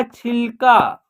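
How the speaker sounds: छिलका with the final का held; pronunciation demo. Shown as a demonstration. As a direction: model छिलका in two clear syllables. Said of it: "क्या उच्चारण हो जाएगा?". (छिलका का साफ़, खींचकर उच्चारण)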